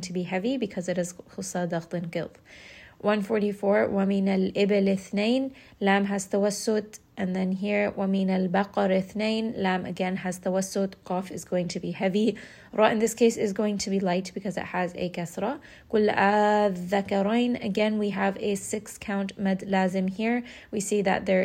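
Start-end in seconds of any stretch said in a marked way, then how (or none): 3.9-5.5 chanted Quranic recitation. Acted. 7.9-9.6 chanted Quranic recitation. Acted. 15.9-17.6 chanted Quranic recitation. Acted.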